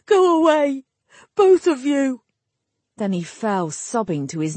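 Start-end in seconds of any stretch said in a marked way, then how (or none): 0.1-2.2 high, loud cry to be left alone; distraught shout. A narrator's reading. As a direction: shout them away, high and forceful. Distraught man drives others away.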